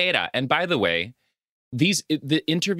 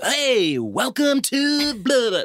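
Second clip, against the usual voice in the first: animated host-style voice, pitched way up high; 12 semitones higher than usual. Retelling how the film's young host greets viewers: imitating youthful Scooby-Doo energy. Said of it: "it's very youthful".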